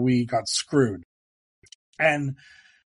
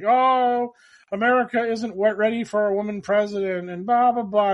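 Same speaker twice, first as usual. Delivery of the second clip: much higher, louder sing-song mockery; mock dismissive pundit; 7 semitones higher, 3 dB louder than usual. Mocking people who doubt a woman president, high and sing-song. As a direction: parody a smug know-it-all. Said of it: "people are like".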